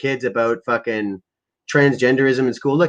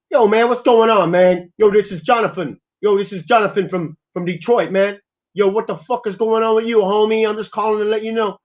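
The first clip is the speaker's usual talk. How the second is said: higher-pitched mock Black American accent; caricatured Black accent; 8 semitones higher than usual. Prank caller checking in with a homie, mock Black accent. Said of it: "With my black accent, something like this".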